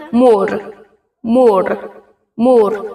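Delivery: مور with a long, soft u; long soft waw. Shown as a demonstration. Teacher showing learners the long waw, drawn-out soft vowel. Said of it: "طولانی".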